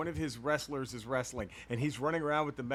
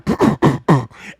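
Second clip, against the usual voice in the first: imitated noise from behind; 3 semitones lower, 15 dB louder than usual. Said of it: "I just hear".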